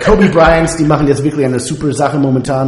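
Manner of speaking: put-on German read with a thick American accent. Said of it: "du sprichst es bitte mit einem amerikanischen Akzent".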